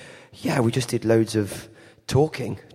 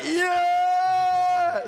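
mock cheer. Mimicking loud American fans.

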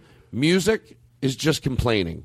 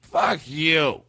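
put-on drunk uncle lament; 2 semitones higher, much slower than usual. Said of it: "He'd be like".

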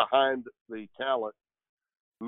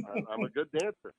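ordinary talk

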